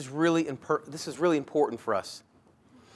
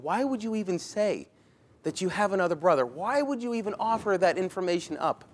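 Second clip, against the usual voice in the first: higher, fast incredulous questioning; a father who can't believe it; bewildered father; 5 semitones higher than usual. Retold or imitated. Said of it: "his family going".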